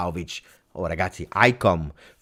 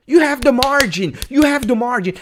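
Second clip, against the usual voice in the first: heated rant; 13 semitones higher, 6 dB louder than usual. Real, not acted. Angry rant at team.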